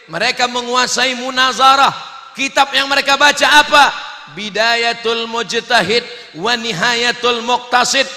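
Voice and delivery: declaiming sermon, gradually rising; forceful oratory with growing volume; preaching, building force. Acted. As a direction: build steadily toward a loud, high proclamation.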